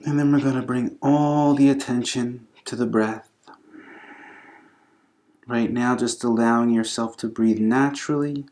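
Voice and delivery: calm, unhurried yoga instruction with long pauses; guided breathing meditation. Acted. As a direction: gently guide them through the breath, leaving space between phrases.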